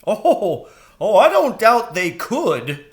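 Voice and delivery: high, quick crow voice; eager young crow. A narrator's reading. Jeremy the crow urging Mrs Frisby home, high and anxious.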